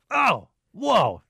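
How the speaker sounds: high, swooping cries of wonder; playful mock awe. Host imagining himself on a river, mock amazed cries. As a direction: echo the rafter's amazed yell in fun. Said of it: "you make me wanna go".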